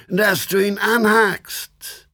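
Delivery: high, eager devilish voice; squeaky impish demon. A narrator's reading. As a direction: egg him on like a gleeful demon. Devil eggs on another devil.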